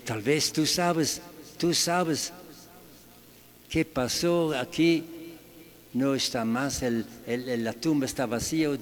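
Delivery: voz de María, más aguda, preguntando con urgencia; María angustiada. Retold or imitated. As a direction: suplica al jardinero que le diga dónde está. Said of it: "Ah, dice". (María pregunta al jardinero por el cuerpo de Jesús, con angustia)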